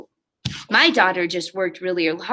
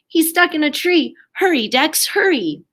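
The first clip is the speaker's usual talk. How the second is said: panicked shout; 7 semitones higher than usual. Acted. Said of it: "they shouted".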